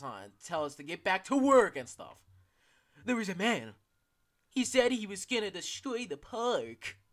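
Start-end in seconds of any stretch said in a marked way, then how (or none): 3.0-7.0 panicked worker. Pretend. Voicing panicked game character.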